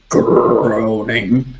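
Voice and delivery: slow, low creak on the word; imitated groaning. Narrator describing a noise near the bow, groaning slowly.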